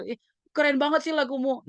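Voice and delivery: high, put-on admiring voice; teasing. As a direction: imitate teens poking fun at a singer. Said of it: "ngeledek-ngeledek kan mereka ya".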